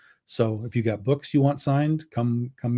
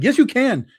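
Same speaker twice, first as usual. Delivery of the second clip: higher and louder, pressing him to say yes; a playful insistence on Ray, higher and louder; emphatic insisting; 9 semitones higher, 4 dB louder than usual. Retold or imitated. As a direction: push it like a friend who won't take no. Insisting to Ray he can share.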